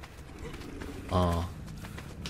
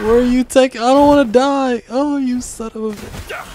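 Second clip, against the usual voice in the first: much higher and louder, frantic; panicked yelling; 11 semitones higher, 5 dB louder than usual. Real, not acted. Gamer shrieking as other players attack him, frantic and loud. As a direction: yell in panic as you're about to die.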